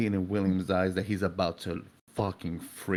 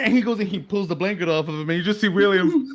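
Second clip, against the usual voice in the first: ordinary talk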